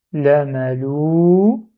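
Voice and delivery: "lamalou" slow and stretched; syllable by syllable. Shown as a demonstration. Teacher builds the word, slowly. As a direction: read it piece by piece. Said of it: "Je dis".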